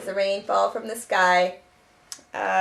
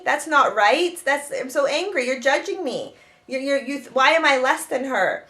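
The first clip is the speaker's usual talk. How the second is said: mildly indignant, raised pitch; angry outburst; 3 semitones higher than usual. Acted. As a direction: protest like a hurt daughter, without really yelling. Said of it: "she wanted to yell and scream".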